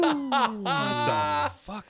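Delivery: drawn-out stunned what the fuck; shocked outburst. Real, not acted. Friend reacting to Bobby's insult with shocked disbelief.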